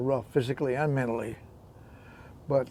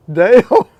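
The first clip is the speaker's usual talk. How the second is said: mock English retort; 5 semitones higher, 10 dB louder than usual. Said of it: "And you said".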